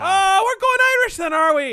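loud, high and thrilled; excited shout. Real, not acted. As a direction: shout it out in delight. Mock shouted reaction.

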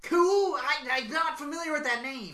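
put-on high wrestler voice; Seth Rollins. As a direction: play dumb as a cocky wrestler. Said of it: "Seth Rollins is coming".

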